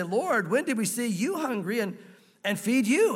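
"you" leaned on in an astonished question; "you" magnified, standing out from the question; stress on you. Acted. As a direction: put the emphasis on each "you". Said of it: "is, is emphatic in the Greek".

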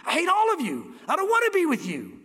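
bitter hatred. Retold or imitated. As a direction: spit hatred at the saved crowd. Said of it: "gonna be gnashing their teeth".

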